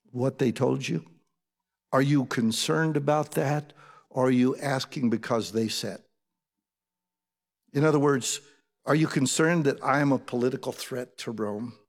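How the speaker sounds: calm, unhurried questioning. Retold or imitated. Jesus questions Pilate, calm and unruffled. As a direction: ask it evenly, with measured pauses. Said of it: "That's how calm he is".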